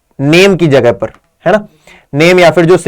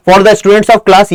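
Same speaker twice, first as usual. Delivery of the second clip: slow reading; much slower than usual. Shown as a demonstration. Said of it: "ये आप क्या हो गया?".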